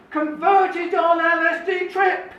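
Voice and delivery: slow, measured proclamation; bold capitals headline. Retold or imitated. Man reads the bold headline about his own conversion, proclaiming it. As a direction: spell out the headline in bold, word by word. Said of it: "and in bold capital letters".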